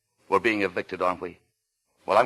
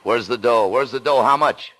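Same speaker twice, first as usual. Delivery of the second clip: angry demand; 2 semitones higher, 5 dB louder than usual. Acted. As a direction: shove the question at him. Demanding money, escalating.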